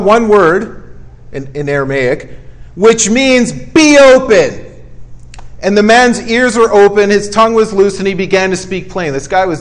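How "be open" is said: slow, firm command, a bit louder. Retold or imitated. Preacher voicing Jesus to the deaf man, slow firm command. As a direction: speak it as a calm, sure command to heal.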